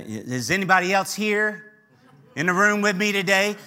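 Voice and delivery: lightly imitated church preacher's call to the congregation. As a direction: call out playfully to rouse the room. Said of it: "as my black friends say".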